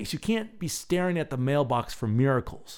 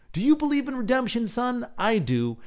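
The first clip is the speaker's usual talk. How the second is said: fatherly voice; 10 semitones higher than usual. Pretend. Fatherly speech to son.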